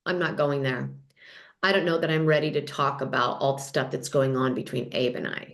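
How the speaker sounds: low, composed confessional voice; calmly decline, pitched well down. Retold or imitated. Cast member to the camera about her marriage, calmly. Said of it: "looks in the camera and calmly says".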